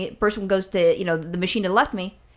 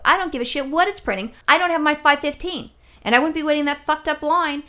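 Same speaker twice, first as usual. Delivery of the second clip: higher-pitched irritated retort; retold indignation; 5 semitones higher than usual. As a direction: argue back, fed up and insistent. Re-enacts argument with the repairman.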